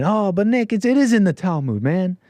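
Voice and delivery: lightly voiced whiny objector; a touch of a nagging critic; mocking objectors. Host pre-empts critics with a light whiny voice. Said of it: "already saying".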